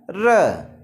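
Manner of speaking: र said alone as the sound of R; teacher's isolated र sound; R sound demo. Shown as a demonstration. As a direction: sound out र, not the letter name R. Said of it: "आर का उच्चारण क्या आ रहा है".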